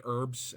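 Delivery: HERBS with silent h and a strong "er"; American pronunciation. Shown as a demonstration. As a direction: say "herbs" as "erbs", American style. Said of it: "We have that er".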